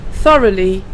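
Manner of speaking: "Thoroughly" said clearly as THUH-ruh-lee with the tongue between the teeth; model pronunciation. Shown as a demonstration. Teacher modelling "Thoroughly" for learners, careful pronunciation. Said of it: "the first word here that begins with T H".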